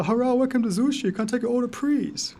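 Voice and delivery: high-pitched mock Asian accent, sing-song. Teasing his wife about her restaurant job, mock Asian accent. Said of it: "mimicking the South Park Asian accent".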